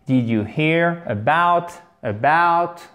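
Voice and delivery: HEAR with a clearly breathed H, drawn out slowly; H aspiré. Shown as a demonstration. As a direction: say "Did you hear about" slowly, sounding the H in "hear". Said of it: "faites bien le H aspiré". (« hear » avec un H bien aspiré, lentement)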